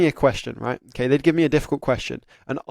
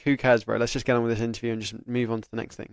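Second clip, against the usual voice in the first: casual, unbothered shrug, a little lower; who-cares attitude; 5 semitones lower, 5 dB quieter than usual. Shown as a demonstration. Candidate shrugging off a tough question, casual and unbothered. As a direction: brush it off and move on. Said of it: "The whole point is the attitude".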